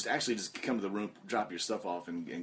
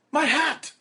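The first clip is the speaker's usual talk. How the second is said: much higher, louder panicked shouts; imitating Uno yelling; 10 dB louder than usual. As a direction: wail as the hat flies out the window. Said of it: "He goes".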